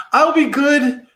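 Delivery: high, loud frightened plea; praying. A narrator's reading. Tom Skeleton prays to the god of death, high and scared. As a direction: beg like a scared boy.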